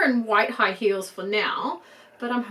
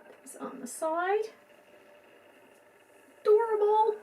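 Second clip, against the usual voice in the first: much higher, squealing delight; gushing excitement; 11 semitones higher than usual. Real, not acted. Collector gushing over tiny hair ribbons, squealing high.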